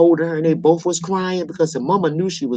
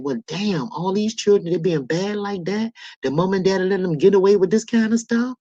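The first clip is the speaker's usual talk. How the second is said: higher-pitched, incredulous questioning; indignant disbelief; 3 semitones higher than usual. Acted. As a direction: react as if you can't believe what parents allow. Imagined indignant reaction to bad children.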